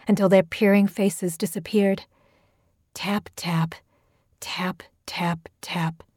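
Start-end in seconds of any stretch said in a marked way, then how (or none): 2.9-6.0 softer and softer to a whisper; fading taps. A narrator's reading. Tapping on the glass, fading to a whisper. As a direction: let the taps die away.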